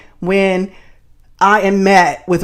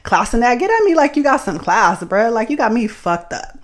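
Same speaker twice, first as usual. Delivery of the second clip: bougie sass. Retold or imitated. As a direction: toss it off as she gets in the car. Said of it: "just like".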